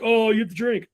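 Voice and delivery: high teasing call-out; playful taunt. Acted. Players catching a loser in the drinking game, high playful taunt.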